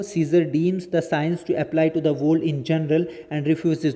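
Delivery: measured textbook reading, slow; slow reading aloud. Acted. Teacher reads the English summary to students, slow dictation pace. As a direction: read each phrase slowly and deliberately, as if dictating.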